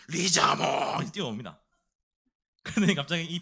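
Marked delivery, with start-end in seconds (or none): 0.1-1.0 mock monster cry of its own name; loud cartoon creature call; Charizard. Private imitating a cartoon monster, crying out its name. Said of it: "만화 캐릭터 리자몽을 따라하는".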